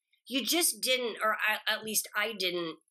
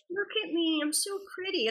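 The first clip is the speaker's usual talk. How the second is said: high, hammed-up vain younger self; mock vain; 8 semitones higher than usual. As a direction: preen over your old photo. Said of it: "I'm just like".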